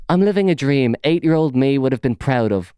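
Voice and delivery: high mock boast, slowing on the last words; mocking a smug post; mocking read-out. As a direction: sneer through the smug line. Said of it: "reading his post mockingly".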